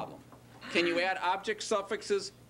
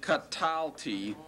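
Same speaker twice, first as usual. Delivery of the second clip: slow demo word; much slower than usual. Shown as a demonstration. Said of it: "Let's take an example like".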